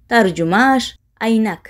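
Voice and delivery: usual speaking voice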